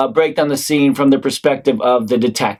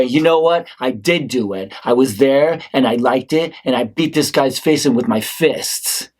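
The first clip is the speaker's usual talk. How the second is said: cracking confession. Acted. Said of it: "I crack and I say".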